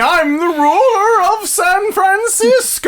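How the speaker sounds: high, loud, slow tyrant proclamation; dark lord. Pretend. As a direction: bellow it like a gloating conqueror. Mock emperor in a chariot.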